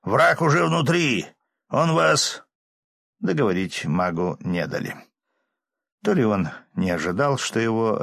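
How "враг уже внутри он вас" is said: high loud warning yell; alarmed shout. Acted. Necromancer yelling, cut off.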